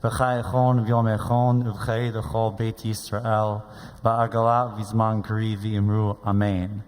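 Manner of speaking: steady, level-pitched liturgical recitation; prayer recitation. Acted. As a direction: lead the congregation through an Aramaic prayer, evenly. Recites the Mourner's Kaddish.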